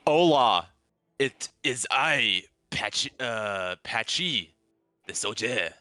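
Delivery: hammed-up, botched Spanish accent; bad Spanish accent. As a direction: attempt a terrible Spanish accent, slowly. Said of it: "in the worst Spanish accent you have ever heard".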